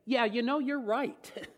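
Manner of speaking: lightly voiced, mock self-satisfied agreement; mock smug Jesus. Preacher jokingly imagines Jesus agreeing, mock smug. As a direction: play it as a tongue-in-cheek boast. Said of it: "Does he say".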